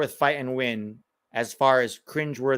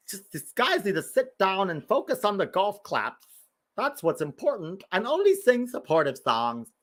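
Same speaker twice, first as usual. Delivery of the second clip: higher-pitched mock fussy fan; 5 semitones higher than usual. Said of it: "They would go there and be like".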